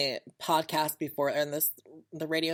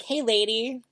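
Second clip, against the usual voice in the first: louder, higher Hey, lady; casual call; 6 semitones higher, 7 dB louder than usual. Retold or imitated. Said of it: "and I'm like".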